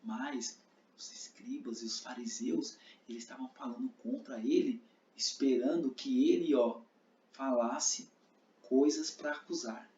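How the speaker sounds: whispering the plot; hush, tell it secretly; whispered narration. Shown as a demonstration. Narração sussurrada da cena. (narração em sussurro)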